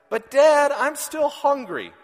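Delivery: very high, loud drawn-out plea; whiny toddler. Retold or imitated. Father imitating his son still hungry, slow high whine. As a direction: stretch it out, still hungry and whining. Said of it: "he says".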